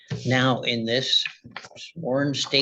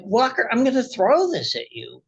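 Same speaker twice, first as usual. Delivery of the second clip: retold warning; 9 semitones higher than usual. Retold warning to angry neighbor.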